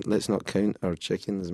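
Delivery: "count our chickens" in broad Scottish vowels; Scottish accent. Real, not acted. Scottish singer repeating his sentence to a puzzled interviewer, Scottish accent. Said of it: "having trouble with your Sc-, Scottish accent".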